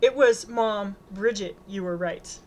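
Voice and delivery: loud "It was, 'Mom," then an even "Bridget, you were right"; pointed correction. A narrator's reading. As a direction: correct the quote, punching "Mom" before "Bridget". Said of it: "Bridget adds a correction".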